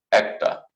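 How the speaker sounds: একটা opened with an "ae" sound; correct Bengali pronunciation. Shown as a demonstration. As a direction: say একটা as "AEK-ta", set apart. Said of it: "শুদ্ধ উচ্চারণ হচ্ছে একটা".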